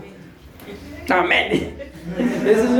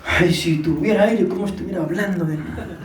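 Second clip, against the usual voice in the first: out of breath; 5 semitones lower than usual. Real, not acted. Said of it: "hablando bajito porque casi no tengo aire".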